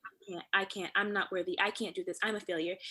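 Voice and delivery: stuck in self-defeat. Pretend. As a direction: imitate being stuck in self-doubt. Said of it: "because I'm stuck in".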